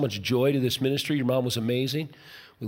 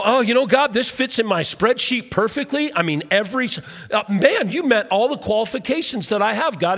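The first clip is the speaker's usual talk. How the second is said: mock smug believer; 5 semitones higher than usual. Preacher mimics a believer telling God it all adds up, mock smug. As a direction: play the smug planner pleased with his spreadsheet. Mocking a self-assured believer.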